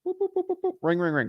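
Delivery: high boops, then spoken rings; little phone sound effect; imitated phone ringing. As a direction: mimic a phone dialing and ringing.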